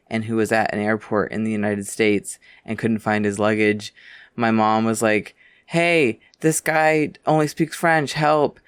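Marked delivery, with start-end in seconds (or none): 5.7-8.6 lightly voiced mom, higher-pitched summons; mom calling out. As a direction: imitate a mom calling for help. Imitates mom calling her to help.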